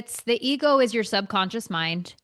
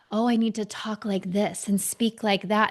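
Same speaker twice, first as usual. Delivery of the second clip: mock pretentious talker; 4 dB quieter than usual. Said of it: "they're like".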